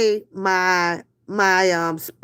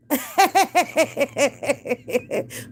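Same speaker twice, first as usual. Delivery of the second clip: laughing; 4 semitones higher, 3 dB quieter than usual. Real, not acted. Laughs at own joke.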